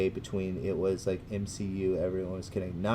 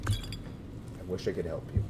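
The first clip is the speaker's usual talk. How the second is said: softer, slower, drawn-out I wish I could help you; mock pitiful aside; 7 dB quieter than usual. Shown as a demonstration. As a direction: sigh it out as a mock-sad afterthought. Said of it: "said twice, second differently".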